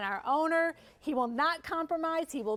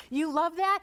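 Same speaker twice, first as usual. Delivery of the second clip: laughing; 3 semitones higher, 4 dB louder than usual. Real, not acted. Laughs while asking.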